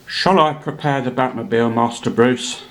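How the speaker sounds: lightly voiced Michael Caine butler; a hint of a London butler, deferential; Michael Caine as Alfred. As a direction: butler offering the car to his master, mild Caine imitation. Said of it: "here's a word from Sir Michael Caine".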